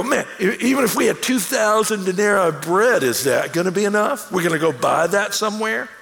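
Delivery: imitated disciples questioning with a touch of edge; slight edge. Hungry disciples doubt Jesus's plan to feed everyone, slightly edgy. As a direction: push back with mild, incredulous attitude. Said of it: "There's a little edge to what they're saying".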